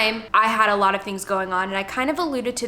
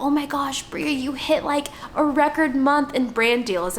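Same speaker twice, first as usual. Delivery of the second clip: higher, mock-excited cheering voice; excited congratulator; 5 semitones higher than usual. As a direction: gush like an eager colleague. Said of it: "It's like".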